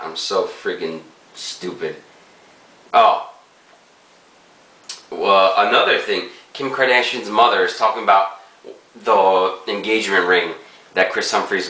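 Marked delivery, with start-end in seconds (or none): 0.0-7.3 speaking around pipe stem; pipe in mouth. Real, not acted. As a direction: lips closed on pipe. Seen 2: Pipe stem enters mouth at 0.6s and stays through the end.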